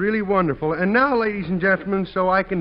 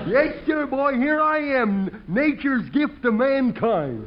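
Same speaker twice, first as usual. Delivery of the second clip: Clem the bumpkin; 3 semitones higher than usual. Acted. Clem the dim fireman talking to the audience, goofy and cheerful. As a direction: play a goofy rube pleased with himself.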